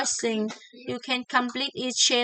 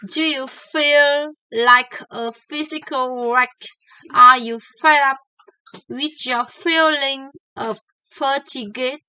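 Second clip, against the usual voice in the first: louder, every F punched; F words stressed; 7 dB louder than usual. Shown as a demonstration. Teacher reads the practice paragraph, F words punched. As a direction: lean on each F. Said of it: "Let's work on the paragraph".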